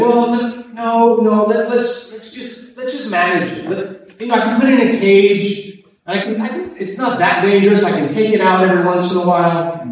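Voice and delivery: a hint of a nervous haggler; reluctant bargainer. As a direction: stall and bargain, stumbling quickly over the words. Man bargaining with angel in story.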